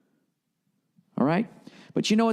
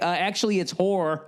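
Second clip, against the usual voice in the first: lightly voiced nitpicking corrector; a hint of a pedant correcting; mock pedant; 2 semitones higher than usual. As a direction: play a smug fact-checker, lightly. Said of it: "And you're like".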